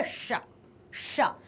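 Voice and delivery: "शा" with tongue curled back, as ष; retroflex sha. Shown as a demonstration. Teacher introducing the third sibilant, "शा" as retroflex ष. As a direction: curl the tongue inward to say "शा". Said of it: "जीभ है वो अंदर मुड़कर".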